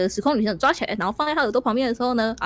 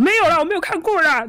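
brushing off; 6 semitones higher, 6 dB louder than usual. Acted. Giant gruffly dismisses traveler.

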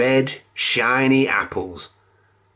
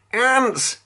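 alarmed cry; 11 semitones higher than usual. A narrator's reading. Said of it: "he screamed".

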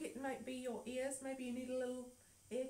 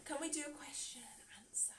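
whisper; 3 semitones higher, 7 dB quieter than usual. Real, not acted. Whispered exchange.

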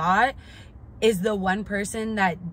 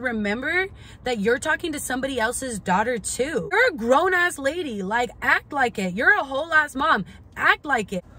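mock lecture, rising louder and higher to the end; retold scolding; 5 semitones higher, 3 dB louder than usual. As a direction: scold her like a grown-up who should know better. Retelling telling off friend's mom.

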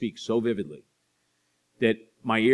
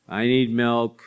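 put-on toddler voice; 3 semitones higher, 8 dB louder, slower than usual. Toddler calling from crib.

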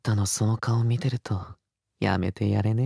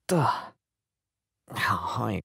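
usual speaking voice

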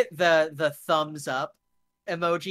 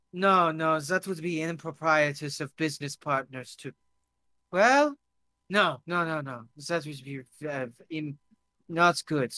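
put-on halting accented protest; flustered foreign guest. Drunk guest protests impropriety to business partners, flustered and accented. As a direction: stumble over your words in a foreign accent.

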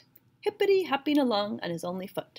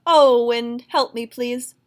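loud cry to the wind, then pleading; tumbling through the air, Half Chicken calls the wind, loud plea; calling out; 10 dB louder, slower than usual. A narrator's reading. Shouted plea for help. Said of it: "he called out".

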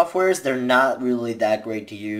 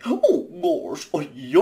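much higher goofy cartoon dog voice; dopey, drawn-out cartoon exclamation; high silly dog voice; 6 semitones higher than usual.

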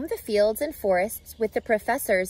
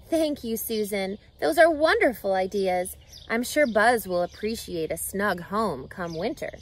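said with a smile; 3 semitones lower than usual. Acted. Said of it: "she said with a smile".

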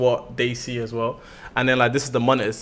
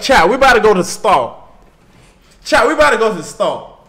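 loud, high-pitched attempt at an American accent; imitated American accent; 8 semitones higher, 7 dB louder than usual. Shown as a demonstration. Streamer competing with co-host before the chat, imitated American accent. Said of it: "you do the British one first".

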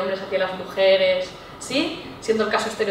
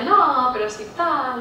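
modest downplaying; much slower than usual. Shown as a demonstration. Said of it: "le quitamos a veces un poco de importancia".

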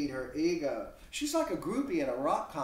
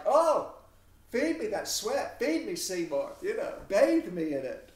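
higher, louder, swooning; mock groupie; 4 semitones higher, 6 dB louder than usual. Groupie begging the sweating rock god, mock swooning. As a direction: ham up a fan begging the rock star. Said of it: "They're just like".

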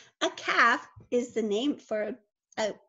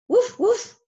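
a louder, higher woof for the sheepdog; louder dog bark; 6 semitones higher, 7 dB louder than usual. Pretend. Sheepdog herding in story.

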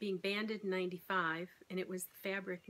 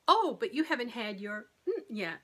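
louder, pleading inner voice; mock wheedling craving; voice of the craving brain; 4 semitones higher, 10 dB louder than usual. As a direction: tempt yourself like your own hungry brain. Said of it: "my brain is saying".

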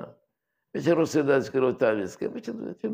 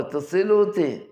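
retold plea; 7 semitones higher, 5 dB louder than usual. Retold drowning man's plea.

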